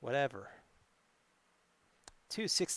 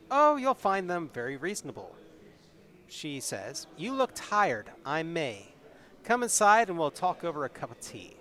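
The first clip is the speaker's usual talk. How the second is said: story narration; 2 semitones higher than usual. A narrator's reading. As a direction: read the adventure like a tale to the audience. Reads gamebook narration with May's lines.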